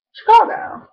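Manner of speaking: "Chicago" with a long flat A, excited; "Chicago" with a broad Chicago A; Chicago accent. Shown as a demonstration. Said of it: "it means".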